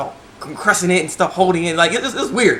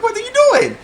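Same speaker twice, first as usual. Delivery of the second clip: laughing disbelief; 4 dB louder, faster than usual. Retold or imitated. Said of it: "I was like".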